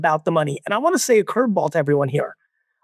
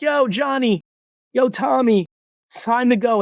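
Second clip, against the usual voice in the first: lightly voiced parent calling a kid, higher pitch; 5 semitones higher than usual. Mom and dad calling kid off the beach, parents calling out. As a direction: call the kids in, raised pitch without shouting.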